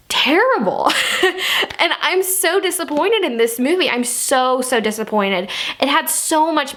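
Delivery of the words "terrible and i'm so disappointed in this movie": breathy whispered disgust, slightly higher; whispered verdict. Real, not acted. Reviewer whispering her disgust at the film. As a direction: drop to a whisper on the word.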